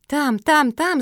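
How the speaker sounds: high, loud breathless calling; dog running back in, shouting; excited shout. A narrator's reading. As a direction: burst in shouting the news. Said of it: "закричала Марсия".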